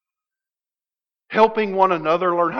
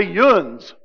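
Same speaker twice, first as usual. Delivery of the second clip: Tennessee yuns. Retold or imitated. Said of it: "They say".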